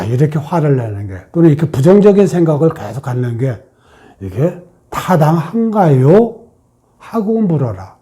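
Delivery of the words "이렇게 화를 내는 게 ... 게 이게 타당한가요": polite question. Shown as a demonstration. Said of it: "존대로 물어야 돼요".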